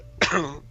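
short rough throat clear. Real, not acted. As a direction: clear your throat before going on. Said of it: "Przepraszam za mój kaszel". (odchrząknięcie)

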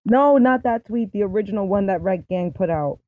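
muffled, thumb over the speaker; muffled mic sound. Real, not acted. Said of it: "It sounds like you're muffled".

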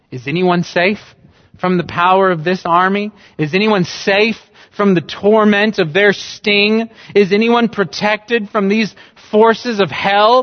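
preacher thundering rhetorical questions at the congregation; fiery preaching. Acted. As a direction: preach it from the pulpit at full force. Preaching at full force.

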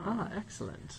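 high, playful villain's relish; mock evil schemer. Boss hearing the intern will stay, as a mock evil schemer. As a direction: savour it like a pretend evil mastermind. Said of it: "Playing into my evil plans".

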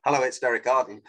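brisk phone pickup; fast pace. Shown as a demonstration. Coach plays himself answering a call, brisk. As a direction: answer the phone like a busy man. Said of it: "said it at a fast pace".

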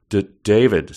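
a stuttered start on the name; stammering. Acted. Susan stammers at David on camera, lightly. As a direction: trip over the first sound, lightly. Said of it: "Susan stammered".

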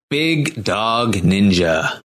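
slow, drawn-out hype announcer. Pretend. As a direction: call it like a sports announcer. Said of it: "That was a good announcer voice".

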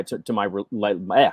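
stumbling over false starts, voice dropping; tongue-tied. Real, not acted. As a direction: trip on the words and give up with "eh". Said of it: "I can't even talk right now".

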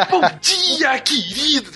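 bright, high cheery greeting; excited greeting. Retold or imitated. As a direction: imitate his upbeat morning hello. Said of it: "a entrada mais animada do SciCast".

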